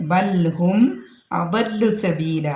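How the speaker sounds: slow, measured verse recitation; Quran recitation. Real, not acted. Teacher quoting the verse before explaining, slow recitation. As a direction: recite slowly with drawn-out vowels.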